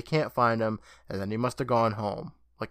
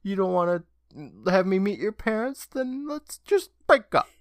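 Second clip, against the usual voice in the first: exasperated ultimatum; 8 semitones higher than usual. Retold or imitated. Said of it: "She's like".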